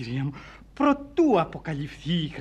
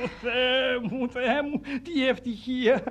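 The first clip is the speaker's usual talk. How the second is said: overcome with emotion; 6 semitones higher than usual. Acted. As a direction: exclaim as if a long search is over. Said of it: "η συγκίνησή μου είναι τόσο δικαιολογημένη".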